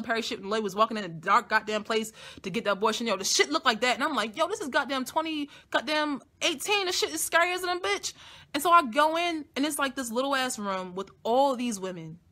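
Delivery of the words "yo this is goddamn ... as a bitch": mock scared. Scared quote in dark clinic.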